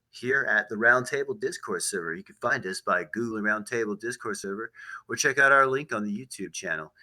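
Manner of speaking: easy radio plug voice; smooth on-air promo delivery. Real, not acted. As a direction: read it like a radio host's channel plug. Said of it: "Using your radio voice".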